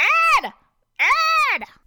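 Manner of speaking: calling out in panic. Reading a story: a character rushes into the store calling for help, panicked shouting. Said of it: "Dennis calls out with panic in his voice".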